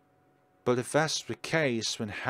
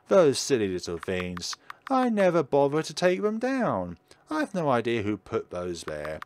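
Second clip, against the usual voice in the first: a hint of a gentle old witch, curious; lightly voiced kind witch; 4 semitones higher than usual. Lonely witch talks to the scarecrow boy, gently voiced.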